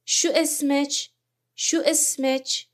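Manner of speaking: Gulf Arabic شو اسمچ, "shu ismech". Shown as a demonstration. Teacher modelling Gulf Arabic شو اسمچ for students, careful.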